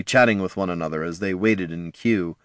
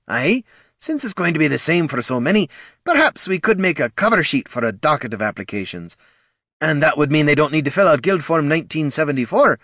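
higher musing dwarf voice; thoughtful dwarf guildmaster; 8 semitones higher than usual. A narrator's reading. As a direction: work the idea out aloud. Corgan musing aloud.

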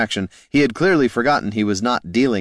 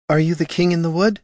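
high raised call; 11 semitones higher than usual. A narrator's reading. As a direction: call out to the unseen. Calling into the swamp.

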